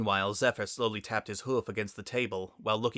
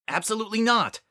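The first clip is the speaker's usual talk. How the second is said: much higher, louder sharp no; flat refusal; 12 semitones higher, 6 dB louder, faster than usual. Acted. Spitfire silently refusing Soren's offer, sharp and loud. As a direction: snap it shut at once.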